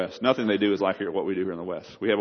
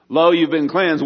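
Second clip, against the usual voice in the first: louder and higher, proclaiming good news; joyful proclamation; 6 semitones higher, 6 dB louder, slower than usual. Acted. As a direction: announce it like a herald of heaven. Preacher proclaiming heaven's answer.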